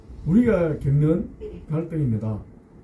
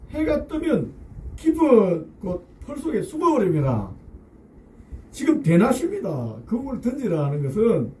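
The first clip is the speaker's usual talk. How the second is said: Peter lecturing on fishing; 4 semitones higher, slower than usual. Acted. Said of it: "타이밍이 틀렸다는 경고등".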